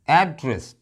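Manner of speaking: एड्रेस with the opening AD punched high, then falling; stress on first syllable. Shown as a demonstration. Teacher showing the home-address meaning, एड्रेस stressed AD-dress. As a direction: hit AD in एड्रेस, let DRESS drop. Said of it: "मैंने stress यहां दिया है एड पर".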